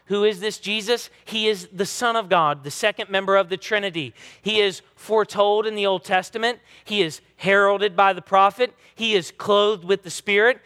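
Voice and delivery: preaching with rising force; rising sermon proclamation; building preaching. Acted. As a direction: build each line like a proclamation.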